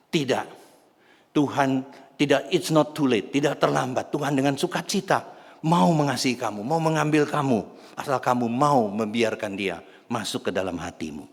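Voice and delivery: impassioned acted plea, easing at the end; emphatic reassurance. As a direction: press the assurance home forcefully. Girl insists God still loves him.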